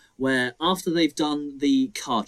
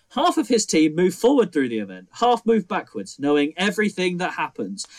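raised, mock-earnest quoted film dialogue; quoting film line; 5 semitones higher than usual. Mocking the film's dialogue, higher mock-earnest quote. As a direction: read the line higher like a baffling script. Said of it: "literally says, written down quote for quote".

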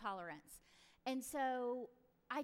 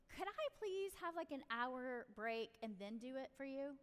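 respectful request. Acted. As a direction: model a child asking mom respectfully. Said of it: "see how that is so respectful".

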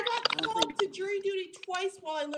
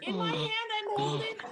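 wind on mic; 3 semitones higher than usual. Real, not acted. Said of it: "you sound like you're in a wind tunnel somewhere".

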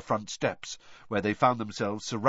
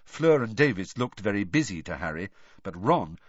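ordinary delivery, nothing marked

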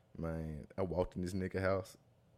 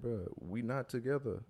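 slow, higher-pitched mock rebuke; imitated telling-off; 5 semitones higher, slower than usual. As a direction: mimic her setting him straight, drawn out. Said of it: "she started going off".

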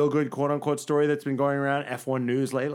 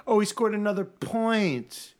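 mock gushing; 4 semitones higher than usual. Mocking how media gush over Alonso.

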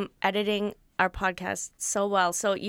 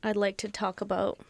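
trying not to laugh. Acted. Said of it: "you're laughing".

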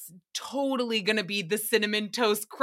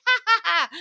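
mock kid laughter; 11 semitones higher, 7 dB louder than usual. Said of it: "And they're like".

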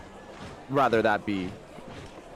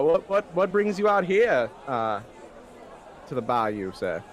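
fussy gent voice. Acted. Character questions Joseph.

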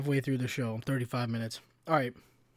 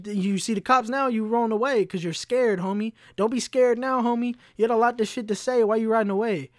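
taunting; 5 semitones higher than usual. Retold or imitated. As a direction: jeer at him for running off. Taunting fleeing man.

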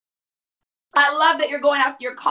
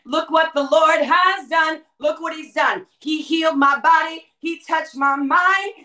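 exuberant praise; 2 semitones higher, slower than usual. Acted. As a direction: testify with rising fervor, stretching the words. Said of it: "you're praising and going".

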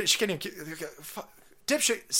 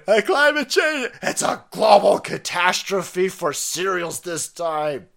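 mock activist yell; 2 semitones higher, 4 dB louder, slower than usual. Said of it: "as they're screaming".

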